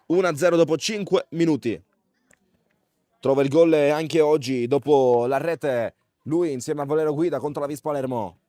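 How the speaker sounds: loud, excited goal call; breathless italian goal commentary. Real, not acted. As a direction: shout the goal with rising excitement. Goal scored, live commentary. (telecronaca del gol concitata e urlata)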